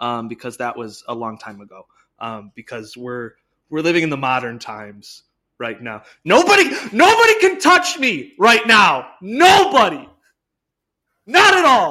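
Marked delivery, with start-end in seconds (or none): 6.2-11.9 booming, very loud, very high swooping yell. Talking with the others on a podcast, yelling into the mic. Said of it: "He's yelling into the mic so loud".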